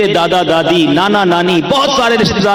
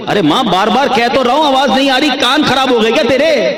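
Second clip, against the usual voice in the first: higher, snapping son losing patience; irritated outburst; 6 semitones higher, faster than usual. Retold or imitated. Son losing patience with his mother, angry snap. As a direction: bark it at her in exasperation. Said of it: "غصہ آ گیا۔".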